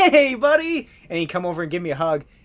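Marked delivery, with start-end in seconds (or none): 0.0-0.9 cheerful voice, high and raised. Imagining meeting the actor who comes over smiling: imitating Tom Cruise laughing cheerfully. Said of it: "he'd smile, he'd laugh, he'd be like".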